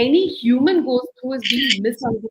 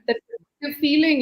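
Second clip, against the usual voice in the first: ordinary talk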